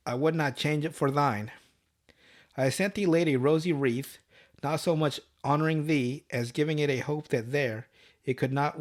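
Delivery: poem recital. Acted. Reading out the old poem Dad wanted him to sing, measured recital. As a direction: recite the verse evenly, phrase by phrase.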